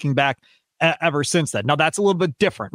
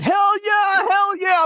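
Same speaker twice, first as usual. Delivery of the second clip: retold cheer, far higher; yelling; slower than usual. Fan cheering the trade news in his office, high yell. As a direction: celebrate like your team just won. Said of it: "I am yelling in my office".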